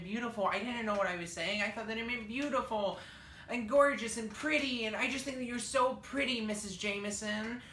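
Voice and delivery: fake crying. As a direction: sob out sweet excuses to the teacher. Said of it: "So I cried".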